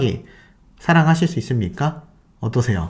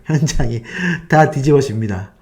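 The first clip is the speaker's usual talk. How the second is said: ordinary talk, nothing marked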